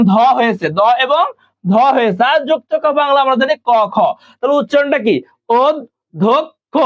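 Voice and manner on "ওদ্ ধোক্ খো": অধ্যক্ষ broken slowly into "od-dhok-kho"; broken into syllables. Shown as a demonstration. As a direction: sound out অধ্যক্ষ piece by piece, pausing between syllables. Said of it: "আমরা উচ্চারণটা একটু ভেঙে ভেঙে করব".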